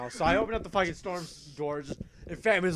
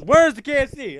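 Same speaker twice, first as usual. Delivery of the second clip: very high, squeaky panicked voice; hiding friend whining high about the missing KFC; panicky whiny friend; 10 semitones higher, 9 dB louder than usual. Retold or imitated. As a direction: whine it from behind a slammed door. Friend repeats demand mid-sentence.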